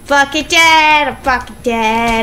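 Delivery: slow, drawn-out resignation; slow wail of a doomed gamer; despairing groan. Real, not acted. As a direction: drag out every word in defeat. Sure of losing the fight.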